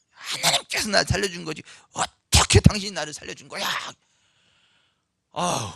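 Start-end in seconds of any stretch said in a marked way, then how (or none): 0.1-3.6 mild mock rebuke. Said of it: "호통을 치시는 거예요".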